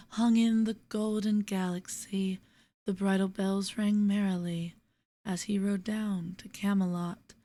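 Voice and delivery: measured, lilting verse with pauses at line ends. Acted. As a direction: read the poem gently, letting refrains fall away. Reads a poem aloud.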